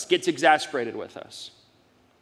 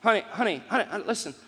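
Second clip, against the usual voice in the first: tender parent. Retold or imitated. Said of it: "That's the tone".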